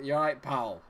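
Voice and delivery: Scottish street greeting; Scottish accent. Acted. Streamer shows how Scots greet people, Scottish accent. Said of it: "when you say it in a Scottish accent".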